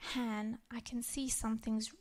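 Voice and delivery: put-on soft and gentle, soothing a child. Mother soothing upset daughter before school, softly gentle. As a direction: ease her upset with a soft voice. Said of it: "I just gently said".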